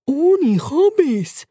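squeaky guinea pig. Acted. Bacon to Turbo, slow squeaky catchphrase. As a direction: stretch out the words like a pet's motto.

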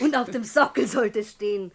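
giggling through the words; laughing. Acted. Madame laughing to the salesman about her bronze monument, giggling. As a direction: laugh as you announce the inscription.

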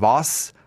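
"Was" set apart as a pointed question; emphatic question. Retold or imitated. Host reads a listener's desperate mail, questioning "Was" emphatically. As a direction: read "Was" as if several question marks follow. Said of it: "schreibt sie mit vier Fragezeichen".

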